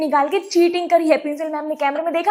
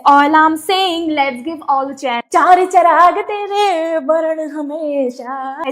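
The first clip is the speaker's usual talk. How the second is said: reciting meme lines; much slower than usual. Pretend. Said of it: "fill in the blanks".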